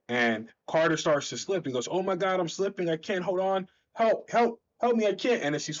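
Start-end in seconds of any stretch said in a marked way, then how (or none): 1.9-5.4 high, frantic pleading for help; panicked cries for help. Acted. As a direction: cry out as your grip slips. Hero slipping, about to fall.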